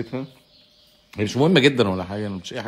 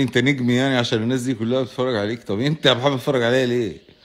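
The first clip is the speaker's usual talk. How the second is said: louder, lively mock demand for an answer; playful grilling; 2 semitones higher, 4 dB louder than usual. Real, not acted. Streamer teasingly grilling viewer Mohamed for watching him, lively and louder. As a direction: keep pressing him teasingly, a bit louder.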